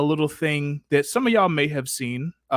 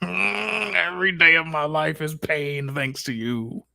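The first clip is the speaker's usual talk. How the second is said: mock despair; slower than usual. Host groans at cohost's teasing.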